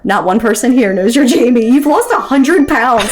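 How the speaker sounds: grandmother driving it home, rising steeply; retold emphatic reassurance. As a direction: start level, climb to an incredulous high finish.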